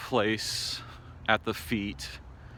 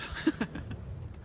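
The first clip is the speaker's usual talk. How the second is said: short, breathy chuckle; real laugh, small and quiet; rueful laugh; 9 dB quieter than usual. Real, not acted. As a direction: laugh softly to keep from crying. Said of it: "I don't know why I'm laughing".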